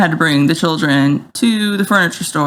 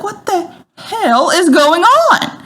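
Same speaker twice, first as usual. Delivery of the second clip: quoting herself; 10 semitones higher, slower than usual. Retold or imitated. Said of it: "I'm like".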